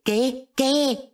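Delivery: high, puzzled questioning; baffled. Retold or imitated. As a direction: ask in acted bewilderment. Baffled reply to screaming family.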